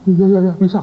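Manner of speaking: high, stammered yes; lightly acted jittery compliance; mock nervous student. Nervous student answers boss.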